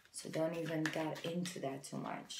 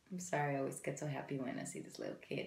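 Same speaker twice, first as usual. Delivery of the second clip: usual speaking voice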